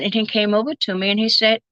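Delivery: ordinary talk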